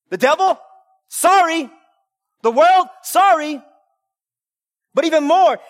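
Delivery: full-force preaching, rising and falling. Acted. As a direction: preach it out to the congregation.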